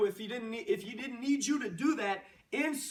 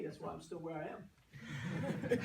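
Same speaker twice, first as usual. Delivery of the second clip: laughing; 5 semitones lower, 8 dB quieter, slower than usual. Real, not acted. Self-deprecating joke, laughing.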